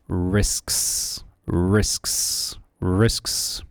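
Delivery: risks with both s sounds crisp and loud; enunciated risks. Shown as a demonstration. Teacher drilling risks for students, crisp final s sounds. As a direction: hit each s in risks clearly. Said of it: "enunciate the S and S after each other".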